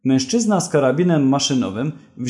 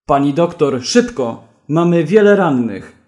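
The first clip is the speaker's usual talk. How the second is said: louder urgent call; shouting nurse; 4 dB louder than usual. Acted. Nurse calling the doctor to the wounded, loud and urgent. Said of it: "krzyczała pielęgniarka".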